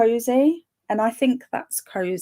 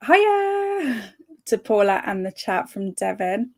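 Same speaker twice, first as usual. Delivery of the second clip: put-on voice. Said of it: "I don't know why I put that voice on".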